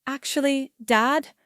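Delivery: "Dad" set apart and pressed; stress on Dad. A narrator's reading. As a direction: lean pointedly on the word "Dad". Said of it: "I emphasize the word".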